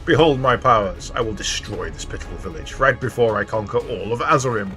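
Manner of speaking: lightly voiced gloating villain; a hint of a dark lord's boast. Reads villain dialogue aloud.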